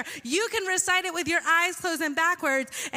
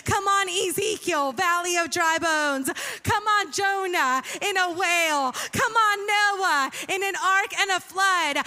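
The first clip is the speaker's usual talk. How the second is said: preaching at full force; 2 semitones higher than usual. Acted. Pastor firing up the congregation, full-force preaching. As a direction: build the crowd up with fire.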